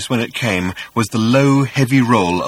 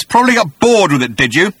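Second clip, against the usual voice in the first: vengeful creature; 10 semitones higher, 8 dB louder than usual. A narrator's reading. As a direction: taunt him from above. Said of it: "said the voice".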